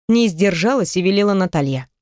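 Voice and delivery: usual speaking voice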